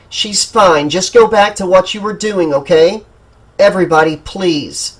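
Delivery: voice of authority. Acted. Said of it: "added the voice of authority".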